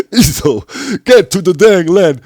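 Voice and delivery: put-on loud, high yell in a strong German accent; German accent shout. Shouting at Iso in German-accented English. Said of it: "With a very strong German, stronger German accent".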